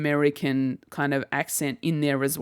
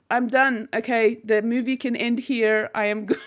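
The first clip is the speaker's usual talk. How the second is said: higher, thrilled replay of her own reaction; thrilled inner voice; 6 semitones higher than usual. Retold or imitated. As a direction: relive the moment of pure fan joy. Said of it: "I was like".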